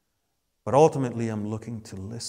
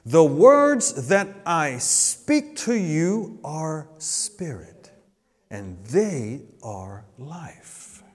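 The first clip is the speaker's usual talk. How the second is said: solemn scripture reading; 5 semitones higher, 7 dB louder, much slower than usual. Acted. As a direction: read the verse slowly, letting it sink down. Reading Jesus' words aloud.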